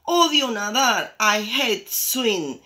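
high, loud storybook tantrum; acted childish fury; very angry insistence. A narrator's reading. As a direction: insist crossly, stretching the English words. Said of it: "insiste Fede muy enfadado, very, very furious".

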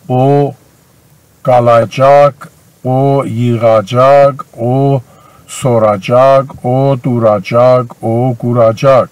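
slow, measured conjugation drill; slow drill recitation. Shown as a demonstration. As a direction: spell out each form slowly for learners.

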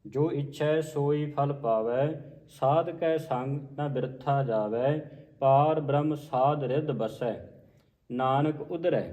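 slow, measured line-by-line reading; scripture recitation. Shown as a demonstration. Teacher modelling a scripture reading for learners, slow measured recitation. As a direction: recite each phrase slowly with pauses between.

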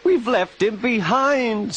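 two coaches wailing together; sobbing. Acted. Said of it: "sobbed Annie and Clarabel together".

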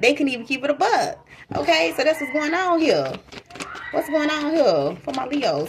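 sassy, heated alter ego; worked up. Real, not acted. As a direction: stay riled up on their behalf. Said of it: "now I'm getting worked up".

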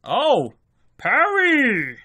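sudden excited cry; surprised shout. Real, not acted. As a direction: blurt the player's name in shock. Sudden defensive play.

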